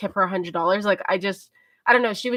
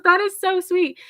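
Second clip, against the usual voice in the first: imitating gushing; 10 semitones higher, 4 dB louder than usual. Retelling the cashier's delighted reaction.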